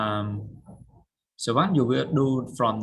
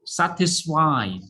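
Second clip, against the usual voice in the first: slow model word; 4 semitones higher, 5 dB louder, slower than usual. Shown as a demonstration. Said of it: "satisfy means".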